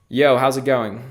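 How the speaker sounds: deliberate command to the assistant. Shown as a demonstration. Speaking the test phrase into the mic, deliberate voice command. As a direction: say it clearly so the mic catches it. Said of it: "it should trigger both of these things".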